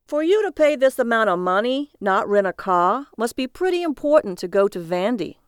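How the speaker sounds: brash cabbie. Acted. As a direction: play the cabbie cocky and amused. Cabbie prods silent passenger.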